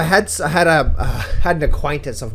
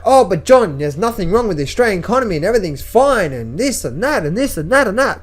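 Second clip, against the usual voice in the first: mocking the friend; 5 semitones higher than usual. Mimicking friend's excuses.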